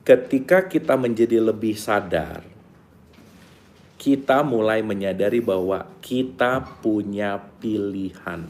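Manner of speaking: slow it down to drive the point home; slow, deliberate repeat. Shown as a demonstration. Teacher repeats the key line slowly for students. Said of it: "ini punch point banget nih".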